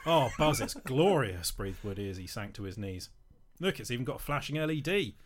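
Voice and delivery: lively comic read-aloud; storyteller performing a saucy parody; story narration. A narrator's reading. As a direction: read the naughty tale with relish.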